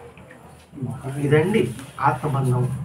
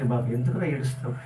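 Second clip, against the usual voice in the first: tender; 6 semitones lower, 7 dB quieter than usual. Acted. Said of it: "చూడండి ఎలా వచ్చిందో".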